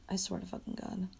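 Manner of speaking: very soft, under the breath; muttered oath. Real, not acted. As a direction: repeat it quietly to yourself. Same oath repeated under breath.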